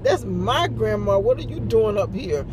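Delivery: mildly hammed-up toddler jealousy; jealous toddler. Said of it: "kinda jealous that he was there".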